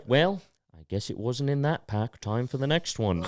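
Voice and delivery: understated showman in a put-on accent; Cheese Man accent. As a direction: lightly put on the performer's accent. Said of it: "I gotta do his accent".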